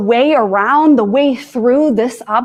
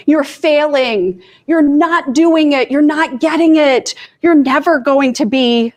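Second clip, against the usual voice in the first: nagging inner critic; 4 semitones higher than usual. Retold or imitated. Her primitive brain scolding her, mock harsh inner critic. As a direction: nag yourself like your own harsh brain, a touch raised. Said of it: "My primitive brain's like".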